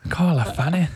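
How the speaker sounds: put-on Scottish accent. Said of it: "I'll stick to the accents".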